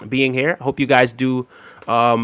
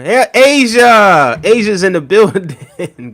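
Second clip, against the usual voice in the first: excited; 7 semitones higher, 10 dB louder, slower than usual. Real, not acted. Greeting a returning viewer.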